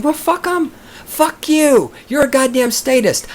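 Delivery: high-pitched indignant cursing; angry outburst. Real, not acted. Ranting at old people he feels he subsidizes, high angry outburst. Ranting at imagined offended diners.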